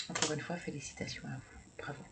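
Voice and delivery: quick whispered congratulations; fast soft whisper. Real, not acted. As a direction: hurry a whisper of praise.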